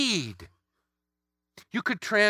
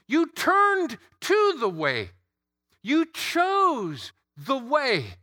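Jesus voiced as a louder, higher preacher; preaching as Jesus; 5 semitones higher, 4 dB louder than usual. Preacher voicing Jesus to his disciples, fervent proclamation. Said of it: "That's why I'm sure he said".

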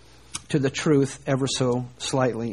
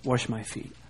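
impetuous refusal; 4 dB louder, slower than usual. Retold or imitated. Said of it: "here's impetuous Peter".

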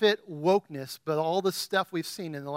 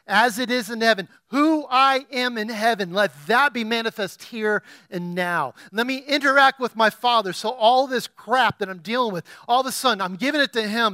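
prayer; 3 semitones higher, 4 dB louder than usual. Acted. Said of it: "get into the presence of the Lord and say".

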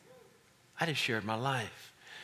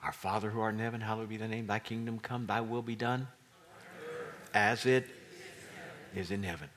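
prayer recitation; 3 semitones lower than usual. Acted.

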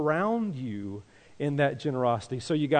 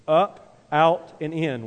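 call-out; 6 dB louder, slower than usual. Shown as a demonstration. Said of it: "I want you to say that with me".

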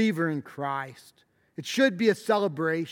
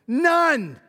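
emphatic none; 6 semitones higher, 3 dB louder than usual. Real, not acted. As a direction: slam the word, then let it settle. Preacher insisting no more mourning.

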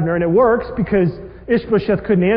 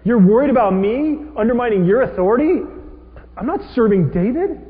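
loud, higher, heated rebuttal; angry defense; 4 semitones higher, 6 dB louder than usual. Retold or imitated. Abner denying he serves David, heated and loud. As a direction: push back hard on the accusation. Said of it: "He's saying".

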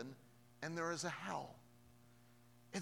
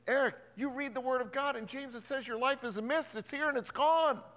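voice of Jesus; 9 semitones higher, 6 dB louder than usual. Retold or imitated. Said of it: "I think Jesus is saying".

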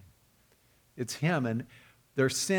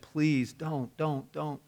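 softly retold begging. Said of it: "and he begged him, and he pleaded".

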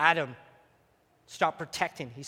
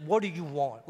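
lower, attempted Italian mobster voice; The Godfather; 4 semitones lower than usual. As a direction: try an Italian-accented crime boss, lightly. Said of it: "Like The Godfather".

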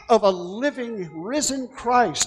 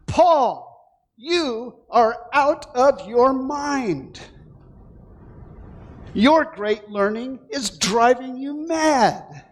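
raised, higher ruler's rebuke; loud voice; 4 semitones higher, slower than usual. Acted. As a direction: call Paul mad from the judgment seat. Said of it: "Festus said in a loud voice".

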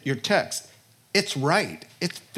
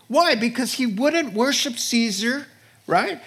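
urgent cry; 8 semitones higher than usual. Real, not acted. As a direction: shout the question out. Preacher's urgent question.

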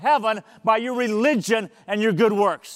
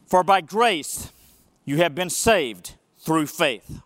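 solemn scripture reading from the pulpit; 3 semitones lower than usual. Acted. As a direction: read the verses with weight and care. Reads the scripture passage.

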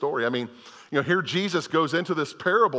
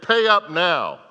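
demanding shout; 5 semitones higher, 7 dB louder, slower than usual. Retold or imitated. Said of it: "and he demanded".

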